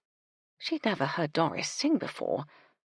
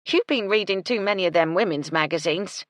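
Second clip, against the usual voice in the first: scornful; 2 semitones higher, 5 dB louder than usual. Acted. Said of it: "Gertie said scornfully".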